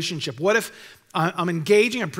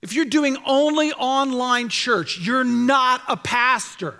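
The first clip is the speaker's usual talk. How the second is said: retold challenge; 3 semitones higher than usual. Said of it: "And I said".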